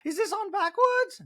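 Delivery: very high mock voice; high prying question; Dorit impression. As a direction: fuss in a high falsetto. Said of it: "Dorit's like".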